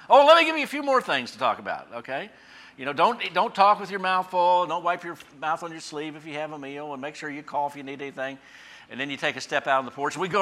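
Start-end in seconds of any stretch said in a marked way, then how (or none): 0.1-8.4 a mom piling on last reminders at the door; fussing mother. Retold or imitated. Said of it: "she'd go around the runway one more time".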